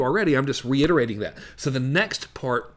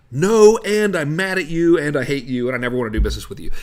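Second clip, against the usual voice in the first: mock angry refusal; 5 dB louder than usual. Imagined buyer refusing the salesman, mock angry. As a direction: overplay a furious customer turning you down.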